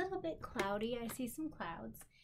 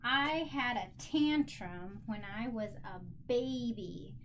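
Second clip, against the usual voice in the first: example sentence; slower than usual. Shown as a demonstration. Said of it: "Here's my sentence".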